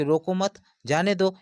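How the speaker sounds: "रोको मत" as one unit, then "जाने दो"; group "रोको मत" together, pause before "जाने दो"; pause after मत. Shown as a demonstration. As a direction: break after मत, meaning let them go. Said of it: "उनको जाने देने की बात कर रहा है".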